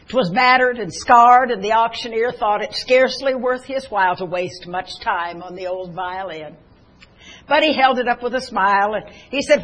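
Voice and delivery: measured, expressive reading of a poem; poem recitation. Acted. Preacher reciting a poem to the congregation, expressive reading. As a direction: let the story of the old violin unfold line by line.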